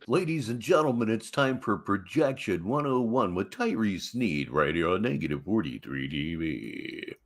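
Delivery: fast, hammed-up show host intro; fast mock announcer opening. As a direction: announce him like a TV show, mocking. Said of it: "mock show announcement".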